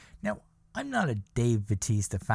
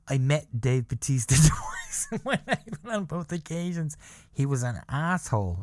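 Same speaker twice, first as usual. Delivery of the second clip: laughing; 3 semitones higher than usual. Retold or imitated. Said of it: "somebody say".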